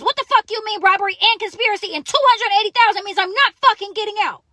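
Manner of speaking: high-pitched retold outrage; blowing a gasket. Woman retelling her reaction to charges and bail, blowing up. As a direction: rant in disbelief at the charges. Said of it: "Now I blow a fucking head gasket".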